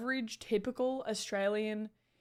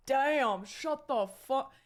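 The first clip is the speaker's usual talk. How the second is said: higher, drawn-out mock complaint; mock exasperation; 5 semitones higher, much slower than usual. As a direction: act fed up with a noisy table, slowly. Mimics annoyed diner at noisy table.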